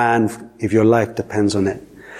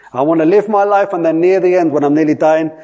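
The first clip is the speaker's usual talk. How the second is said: mock carefree sinner; 5 semitones higher, 4 dB louder than usual.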